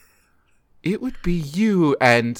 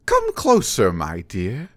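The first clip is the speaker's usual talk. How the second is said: seductive witch voice; 3 semitones lower than usual. Acted.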